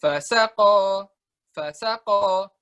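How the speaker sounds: "Fasaqo" drawn out with a strong first syllable; recited slowly. Shown as a demonstration. Teacher demonstrating the word "Fasaqo" from the Quran. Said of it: "di Al-Quran di tengah-tengah".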